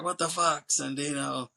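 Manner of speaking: a touch of retold outrage; mock pissed off. Cyrus sees bloody Sandino, mildly mock pissed off. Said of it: "he's piassed".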